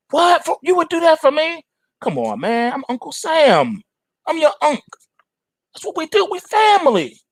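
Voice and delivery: high, gushing, disbelieving voice; amazed business owner and Uncle Sam. Acted. The owner and Uncle Sam gushing over the loan, high-pitched. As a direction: squeal with grateful surprise. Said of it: "responding to government offer".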